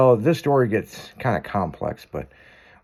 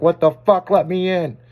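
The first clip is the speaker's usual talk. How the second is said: higher, louder mock dog voice; indignant wet pugs; 7 semitones higher, 4 dB louder than usual. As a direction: whine to be let in, fed up. Voicing pugs left out in rain.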